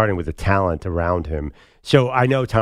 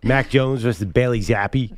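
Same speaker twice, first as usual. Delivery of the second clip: put-on Boston accent; 3 semitones higher than usual. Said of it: "that was a Boston accent".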